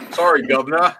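laughing "Sorry, governor." in a hammed-up Cockney; mock Cockney. Shown as a demonstration. Player demonstrates the cliché, laughing Cockney. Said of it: "you're supposed to say governor".

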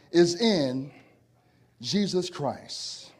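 low, slow, dropped ending. Acted. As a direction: bring it down gently on the name. Preacher's landing after climax.

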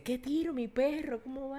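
high, mock-youthful street greeting; youthful slang greeting. Mocking how a fifty-year-old idol greets fans, high youthful slang voice. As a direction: play a middle-aged man trying to sound young and cool. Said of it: "Un man de cincuenta años no te dice".

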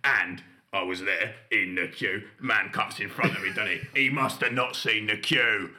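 lightly voiced indignant dad; a hint of a grumbling father. Captain Britain ranting about a queue-jumper, mild indignant dad voice. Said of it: "a little bit like my dad".

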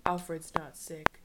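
slow, low, near-whispered mock gravity; hammed-up hushed solemnity, ending whispered; hushed dramatic reveal. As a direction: drop the grave news softly and slowly. Acts out Batman's dramatic reveal.

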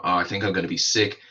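fast, hurried mock-nervous line. Wife at airport customs, fast mock-nervous blurt. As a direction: gabble it like a jittery woman at customs. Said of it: "very nervously".

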